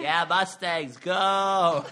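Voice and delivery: loud laughing cheer. Pretend. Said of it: "my signature cheer".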